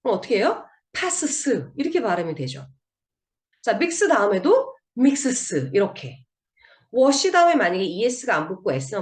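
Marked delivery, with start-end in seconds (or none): 0.9-1.7 "passes" said with a bare s tacked on as a stiff "pas-seu-seu"; s-only ending. Shown as a demonstration. Teacher shows learners what adding only s sounds like, stiff "passes". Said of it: "발음을 좀 부드럽게 하기 위해서". 5.0-5.7 "mixes" with a bare s added, a stiff "mik-seu-seu"; s-only ending. Shown as a demonstration. Teacher shows the rougher form without es, stiff "mixes". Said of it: "조금 부드럽지 않죠?".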